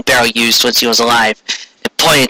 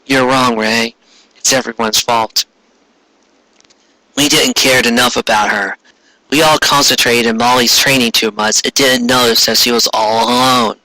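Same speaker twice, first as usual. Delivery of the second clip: comforting Sonya. Acted.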